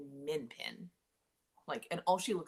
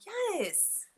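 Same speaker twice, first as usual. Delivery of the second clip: mock cheering; 12 semitones higher, 4 dB louder, much slower than usual. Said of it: "I'm like".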